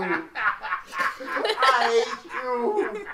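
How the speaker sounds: slow laughing goblin croak. Pretend. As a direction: drag it out like a cackling goblin. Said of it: "hearty goblin laugh".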